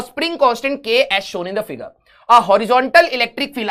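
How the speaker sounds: very slow, word-by-word reading; slow dictation. Real, not acted. Teacher reading a physics question to students, slow dictation. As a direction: read it out slowly so they can copy it down. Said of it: "reading question aloud slowly".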